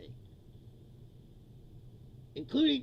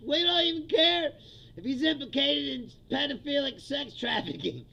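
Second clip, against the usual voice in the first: mock cult follower; 3 semitones higher, 4 dB louder than usual. Voicing Trump's cult followers.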